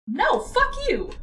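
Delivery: angry yell. Real, not acted. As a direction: snap back in outrage. Yelling at game character.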